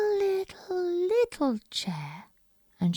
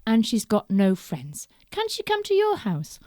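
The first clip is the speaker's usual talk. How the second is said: kind Mummy Bear; 2 semitones higher, 7 dB louder than usual. Acted. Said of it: "said Mummy Bear".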